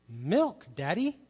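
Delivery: a light, simple little-girl request, barely voiced; lightly voiced toddler asking Daddy for milk.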